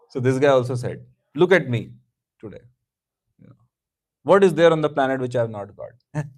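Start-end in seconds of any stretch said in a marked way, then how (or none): 1.3-6.2 louder, gloating brag; boastful loud. Retold or imitated. Rich man boasting to his childhood friend, loud and gloating. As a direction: crow over his wealth.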